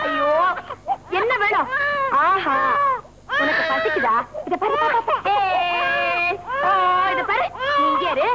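put-on high, sing-song soothing of a crying child; cooing to a baby. Aunt soothes the crying baby, high cooing. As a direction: coax the baby to stop crying, playful.

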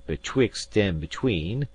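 a light mocking echo of betwixt and between. Gentleman mocking the narrator's hedge, light teasing echo. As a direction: toss the phrase back teasingly. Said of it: "he added".

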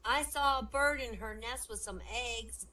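put-on slow, high little-boy voice. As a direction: recite it slowly like a schoolboy. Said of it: "one little boy raises his hand. He says".

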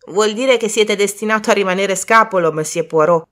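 eagerly offering an explanation; helpful exclamation. Acted. Boy explains the charm to Poirot, exclaiming helpfully. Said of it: "esclamò Colin con l'intenzione di rendersi utile".

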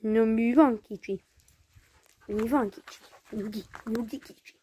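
soft, low talk to a dog; calm the little dog down gently; soothing. Real, not acted.

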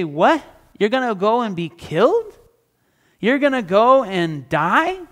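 rising, disbelieving questions; half-acted shock at Jesus' plan; incredulous. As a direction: mildly voice the disciple's disbelief. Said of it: "You might be incredulous yourself".

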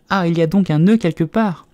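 high, loud concerned question; eager to help. A narrator's reading. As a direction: jump in keenly as a helpful girl. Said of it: "en regardant anxieusement autour d'elle".

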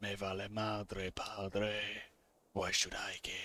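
low, quiet, dismissive; uncaring deep-pitched hero; indifferent gunslinger. Acted. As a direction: brush it off very low and soft. Voices game hero, indifferent.

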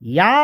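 ইয়া with the ain pressed in the throat. Shown as a demonstration. Teacher shows how ইয়া sounds with a pressed throat. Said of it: "আইন গলা চেপে উচ্চারণটা হবে".

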